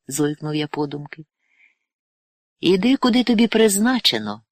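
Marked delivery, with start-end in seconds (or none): 2.6-4.4 higher and louder firm command; clear commanding voice. A narrator's reading. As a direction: call him onward with certainty. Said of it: "виразний голос послушника Онисима".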